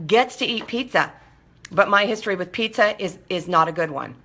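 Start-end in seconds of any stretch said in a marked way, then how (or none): none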